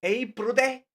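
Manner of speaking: mock the bro greeting; lightly hammed "Hey, brother". Shown as a demonstration. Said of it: "Stop saying bro".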